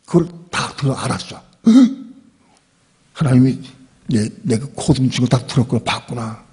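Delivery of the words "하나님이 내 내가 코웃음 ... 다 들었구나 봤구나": sharp gasp, then a stammered realisation; startled gasp. Retold or imitated. Sarah realising God heard her laugh, startled gasp then stammering. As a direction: caught out, gasp and stumble over the words. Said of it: "깜짝 놀랐어".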